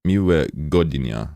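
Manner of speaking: Miłego dnia said slowly and falling; slow repeat. Shown as a demonstration. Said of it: "It's a W?".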